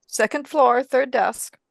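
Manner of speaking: Martha in character. Acted.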